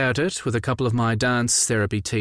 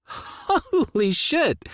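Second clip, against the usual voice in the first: much higher, very slow drawn-out exclamation; shocked exclamation; much slower than usual. Acted. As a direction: stretch it out in disbelief. Shocked reaction to news.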